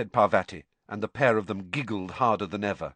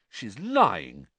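flat dismissal; flatly. Acted. Ron watching Hermione leave, flatly. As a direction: state it with no lift. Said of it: "said Ron flatly".

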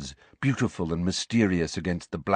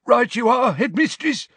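high, loud wheezy voice; Filch wheezing; 3 dB louder than usual. A narrator's reading. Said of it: "wheezed Filch".

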